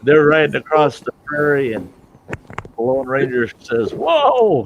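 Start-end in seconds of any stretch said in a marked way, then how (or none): 3.9-4.6 high, loud drawn-out "whoa"; calling a halt. Acted. Lone Ranger calls to Tonto on the prairie, shouted halt. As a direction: holler to rein in the ride. Ranger halts his riding companion.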